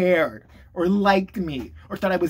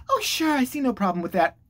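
higher-pitched, lightly mocking agreement; naive mentor; 6 semitones higher than usual. Naive woman answering the adoring kid, mock agreeable. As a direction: imitate her agreeing too easily. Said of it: "she's like".

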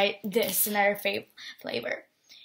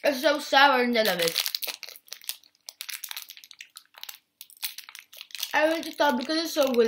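excited; 5 semitones higher, 3 dB louder, faster than usual. Real, not acted. Excited over sour candy.

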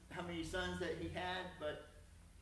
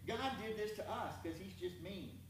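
higher-pitched mock grievance; blaming complaint; 4 semitones higher than usual. Gideon telling the angel it's all God's fault, blaming complaint. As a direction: whine it lightly as an accusation. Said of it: "He tells the angel it's all God's fault".

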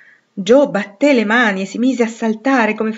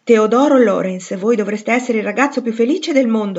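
with conviction; 4 semitones higher, 6 dB louder than usual. A narrator's reading. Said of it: "con aria molto convinta".

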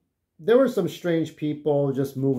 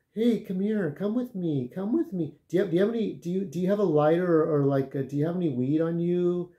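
woman's voice; 3 semitones higher than usual. Retold or imitated. Retold druggy woman asking him.

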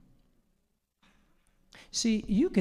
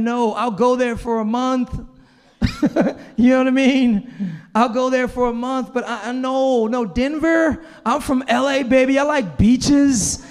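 loud, laughing mock declaration; retold defiant reply; 6 semitones higher, 8 dB louder than usual. Telling God he'd only go for a month, laughing loudly. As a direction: brag it loudly, half laughing. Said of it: "I was straight up saying".

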